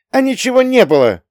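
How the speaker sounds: high, loud, near-hysterical outburst; touch of hysteria. Acted. Young woman bursts out denying everything, near hysterical. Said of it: "С нотками истерики в голосе фыркнула".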